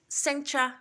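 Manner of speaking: mock British "centra" with an "ra" ending; teacher hams up British "theatra"; British accent. Shown as a demonstration. Showing the class, British-accent "quilômetra". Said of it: "que esse é o sotaque dos britânicos".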